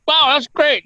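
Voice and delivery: high, put-on delight; mock enthusiasm. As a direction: fake being thrilled, voice jumping up. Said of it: "I was like".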